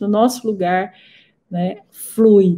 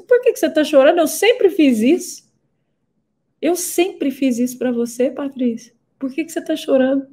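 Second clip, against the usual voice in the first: voicing her mother; 4 semitones higher than usual. Mother voiced in retold story.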